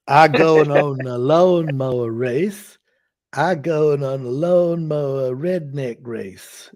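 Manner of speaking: put-on slow, drawled redneck accent; a hammed-up Southern redneck; male redneck accent. Asked for a male accent, slow Southern redneck drawl. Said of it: "do a male accent and see if it works out".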